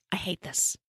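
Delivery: soft, understated loathing; muted disgust. A narrator's reading. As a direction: say it softly, as a private verdict. Narrator's own verdict, first muttered low.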